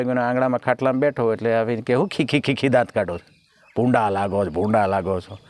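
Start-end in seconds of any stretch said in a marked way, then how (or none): 1.9-5.4 scolding wife. Retold or imitated. Wife scolds grinning husband.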